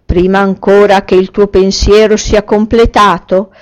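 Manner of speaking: loud grand genie. Acted. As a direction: promise it like a mighty genie. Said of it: "recitò il genio".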